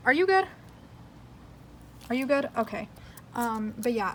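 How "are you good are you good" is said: high pet voice. Real, not acted. Calling to pets.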